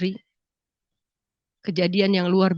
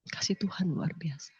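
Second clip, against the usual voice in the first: whisper; 5 semitones lower, 14 dB quieter than usual. Real, not acted. Awed remark about God's love.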